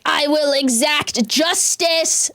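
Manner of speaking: slow, solemn villain declaration; a hint of a self-righteous genius; Light Yagami voice. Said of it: "the light Yagami of the world".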